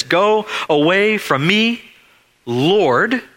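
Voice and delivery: high cry of a man on his face; a lightly acted anguished cry. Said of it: "he cries out to Jesus".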